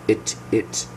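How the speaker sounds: "It, it" with brief, lax vowels; relaxed short I. Shown as a demonstration. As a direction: loose mouth, each "it" very short. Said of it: "my mouth is very relaxed".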